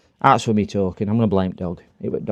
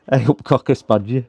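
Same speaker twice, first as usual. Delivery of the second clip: put-on Yorkshire accent. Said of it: "really Barnsley, uh, Yorkshire accent".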